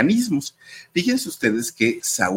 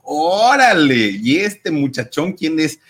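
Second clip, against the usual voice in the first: a singer; 5 semitones higher, 4 dB louder, slower than usual. Retold or imitated. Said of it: "una cantante dijo".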